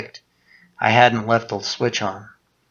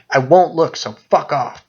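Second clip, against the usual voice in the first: frightened shout; 5 semitones higher, 5 dB louder than usual. A narrator's reading. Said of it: "I screamed".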